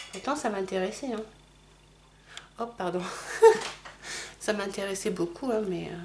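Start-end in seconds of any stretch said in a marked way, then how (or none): 3.1-4.3 laugh. Real, not acted. Embarrassed after fumbling mirror.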